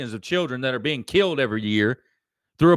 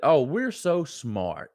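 mocking smugness; 3 semitones lower, 4 dB quieter, much slower than usual. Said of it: "they try to say that".

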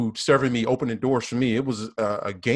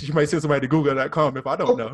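laughing; 4 semitones higher, 4 dB louder, faster than usual. Real, not acted. Laughing while joking.

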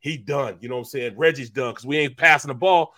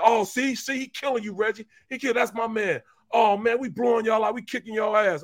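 higher retold trash talk; 6 semitones higher than usual. Creamy trash-talking Reggie.

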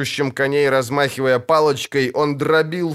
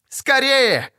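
high, urgent call; urgent cry; 12 semitones higher than usual. A narrator's reading. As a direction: hurry them on in alarm. Urging others across collapsing bridge. (тревожно крикнуть, подгоняя)

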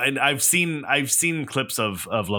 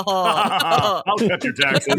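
slow husky campaign promise; politician voice; 6 semitones higher, 3 dB louder, much slower than usual. Pretend. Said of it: "run for office with that laugh".

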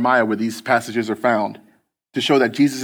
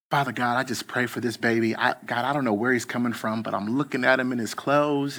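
put-on soft, quiet little old church lady praying; lightly voiced sweet Southern grandma, hushed prayer; gentle Southern lady praying over a stranger, soft and quiet; 6 dB quieter than usual. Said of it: "sweet Southern voice".

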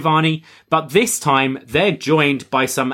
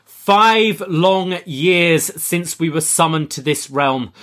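ominous villain voice; 5 semitones higher, slower than usual. Retold or imitated. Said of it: "And Rosemary says".

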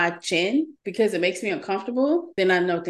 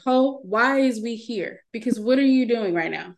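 lightly voiced body part fed up with its owner; complaining body voice; 3 semitones higher than usual. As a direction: play a protesting body, incredulous. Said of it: "That's how my body talks to me".

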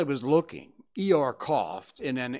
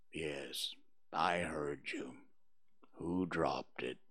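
low, slow, soft donkey voice; gloomy Eeyore; 9 semitones lower, 11 dB quieter, slower than usual. Acted. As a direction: mope through it like a gloomy old donkey.

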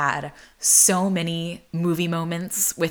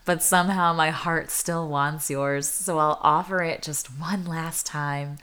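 song lyrics spoken. Real, not acted. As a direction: read the bridge gently, fade to a whisper. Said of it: "going into the bridge now".

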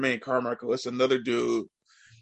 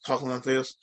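softer congested voice; nasal demo; 5 dB quieter than usual. Shown as a demonstration. Showing how everybody else heard you, nasally. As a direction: mimic a stuffed-up nose. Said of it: "I sounded real nasally".

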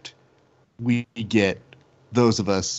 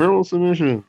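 "Verbal submission" pitched higher, in a sarcastic prim announcer tone; mocking official term; 8 semitones higher, 3 dB louder than usual. Host mocking what the league's lawyers make them say, sarcastic. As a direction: sneer the phrase like a corporate euphemism.

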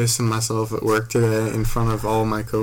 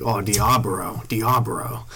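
lightly imitated Asian accent on "Diablo"; mock Asian accent; slower than usual. Brother joking at GameStop, mock Asian accent. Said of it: "making fun of Asian people".

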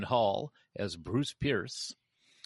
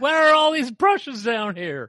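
high, loud, bad Cockney; overdone Cockney miner voice; Cockney accent; 12 dB louder than usual. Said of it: "That's the worst Cockney accent I've ever heard".

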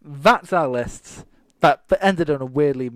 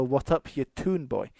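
mock Geordie. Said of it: "Geordies go".

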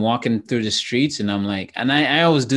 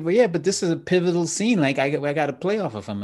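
higher, earnest pleading; earnest young actor; 6 semitones higher than usual. Retold or imitated. Young actor pleading with crew, higher earnest voice. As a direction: insist it matters to you.

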